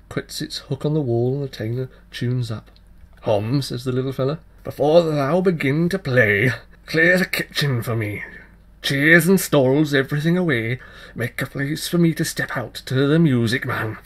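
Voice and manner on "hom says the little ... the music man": put-on changeling child voice. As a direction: tease him with a cheeky dare. Child voice in dialogue.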